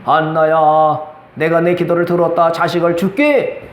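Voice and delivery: low, measured divine voice; 하나님. Acted. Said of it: "근데 하나님이". (낮고 느린 하나님의 음성)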